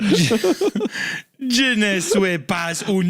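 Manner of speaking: put-on slow, hammy French accent; bad French accent. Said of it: "almost sounds like you're trying to do a Jamaican accent".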